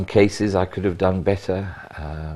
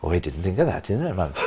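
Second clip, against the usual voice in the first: imitating a Welsh policeman in a South Walian accent. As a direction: lightly put on South Walian lilt. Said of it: "I'm emanating a South Walian accent".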